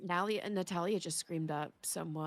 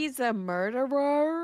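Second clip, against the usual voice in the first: higher, louder shocked question; surprised; 6 semitones higher, 5 dB louder than usual. Real, not acted. Hearing the friend's character kills locals, shocked. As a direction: gasp it out in disbelief.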